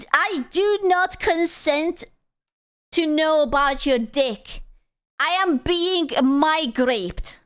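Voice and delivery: high, slow, prissy protest; drawn out like an offended lady; mock indignant protest. Refusing to hear about a friend's dick, slow mock outrage.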